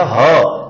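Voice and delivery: ह as a single breathed "ha"; h sound demo. Shown as a demonstration. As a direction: sound out ह on its own. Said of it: "ह का उच्चारण".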